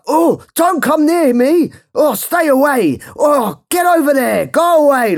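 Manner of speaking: high, loud, frantic shooing; hyper shop worker. Retold or imitated. Retelling the Burger King worker shooing his wife away, hyper and shrill. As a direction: shoo them away in a hyper squeal. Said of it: "being really hyper".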